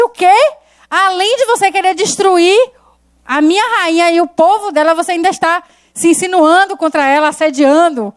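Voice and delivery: a furious king scolding the traitor; angry king. Retold or imitated. King catches Haman at the queen.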